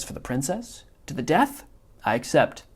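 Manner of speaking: a hint of a fussy, self-satisfied villain; Wallace Shawn's Vizzini. Teacher reading Vizzini's lines to the class, mild smug imitation. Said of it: "mimicking Wallace Shawn's inflection".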